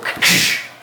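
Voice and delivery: loud hissy crashing noise; imitated door slam. Game master mimes pulling the door shut, imitated slam. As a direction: mouth the noise of a door shutting.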